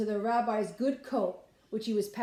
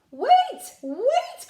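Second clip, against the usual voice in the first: very high, loud calls of wait; crying out; 10 dB louder than usual. Acted. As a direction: shout after him as he runs off. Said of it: "cried the old woman".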